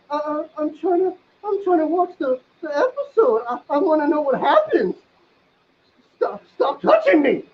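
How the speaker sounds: high, whiny protest. Retold or imitated. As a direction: whine like a bothered kid. Whiny protest while watching.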